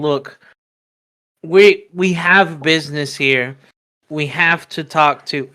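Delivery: slow, mildly weary in-character explanation; sighing explanation. Acted. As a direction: spell it out slowly with a touch of a sigh. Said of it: "Smokey's gonna sigh".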